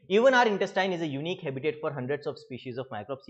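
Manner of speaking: slow, deliberate reading of the book line; slow dictation-style reading; textbook read-aloud. Acted. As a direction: read it out slowly for students to underline.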